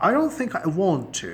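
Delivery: slow, hesitant decline; polite reluctant refusal. Shown as a demonstration. Teacher demoing a polite refusal, slow and reluctant. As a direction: gently say no without saying no. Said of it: "no کہنے کا ایک polite انداز ہے".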